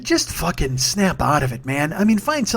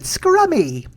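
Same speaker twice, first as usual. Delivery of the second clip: very high, drawn-out hammed-up baking judge; Mary Berry; 12 semitones higher, much slower than usual. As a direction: coo it slowly in a silly high voice. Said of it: "She doesn't talk like that either".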